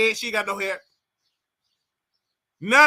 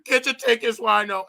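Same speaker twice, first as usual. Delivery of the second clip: imitating crying. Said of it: "And she just crying".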